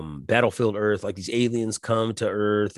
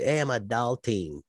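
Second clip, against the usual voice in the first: mocking quote; 2 semitones higher, 4 dB quieter than usual. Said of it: "if you talk like that".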